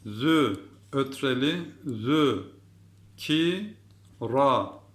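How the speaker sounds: "zü" with a lisped z, then "ki, ra". Shown as a demonstration. Teacher introduces the lisp letter, lisped "zü". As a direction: lisp the z, sound out "zü, ki, ra". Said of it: "peltek harfimiz".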